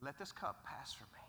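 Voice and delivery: whispered plea. Acted. Jesus whispering his prayer to the father, hushed. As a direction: breathe it out as a whisper.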